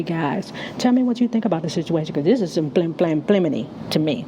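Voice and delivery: slightly slurred with a retainer in; wearing a retainer. Real, not acted. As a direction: talk around a retainer. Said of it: "I got my retainer in my mouth, so if it's slurring".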